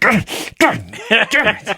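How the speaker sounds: mock disappointment. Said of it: "He was like".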